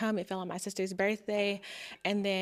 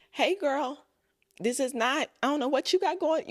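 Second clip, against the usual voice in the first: mock coach callout; 5 semitones higher, 4 dB louder than usual. Voicing the coach calling her out.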